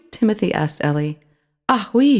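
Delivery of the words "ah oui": high squealing mouse "Ah oui". A narrator's reading. Mouse accepting food from Timothy, squealing. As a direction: squeal with delight. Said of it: "she squealed".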